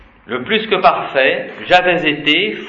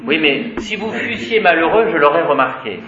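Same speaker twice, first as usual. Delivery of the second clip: haughty aristocratic French; 4 semitones higher than usual. Shown as a demonstration. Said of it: "C'est très rare de parler comme ça".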